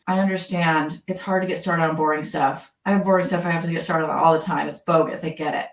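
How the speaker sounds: low, understated commiseration; empathy. Acted.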